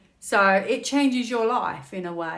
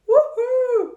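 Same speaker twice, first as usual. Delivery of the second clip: high, loud ironic whoop; mock celebration; 8 dB louder than usual. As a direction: cheer like it's great news, tongue in cheek. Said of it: "I don't know why I'm celebrating".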